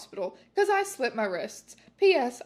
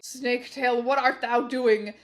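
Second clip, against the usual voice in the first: calling out; 4 dB louder than usual. Acted. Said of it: "called Voldemort".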